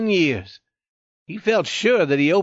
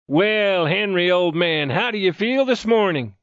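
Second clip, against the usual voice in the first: hearty, higher-pitched demand; demanding greeting; 3 semitones higher than usual. A narrator's reading. Friend checking on wounded youth in the morning, mildly demanding. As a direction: call it out as a mild demand. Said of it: "he demanded".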